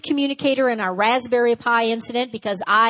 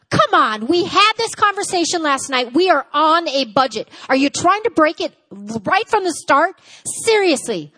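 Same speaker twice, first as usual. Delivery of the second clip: raised, louder, nagging; exasperated scolding; 4 semitones higher, 3 dB louder than usual. Acted. Passive-aggressive partner nagging about the budget, exasperated.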